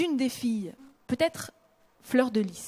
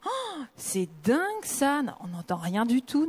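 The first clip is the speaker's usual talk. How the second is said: mild mock amazement at the lost accent; amazed remark. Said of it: "On m'a dit".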